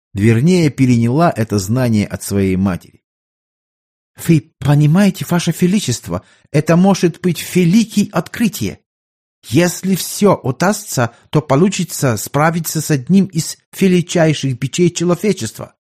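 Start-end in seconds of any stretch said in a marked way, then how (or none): 4.3-15.8 put-on higher-pitched doctor with a German accent; earnest German-accented physician addressing his sovereign.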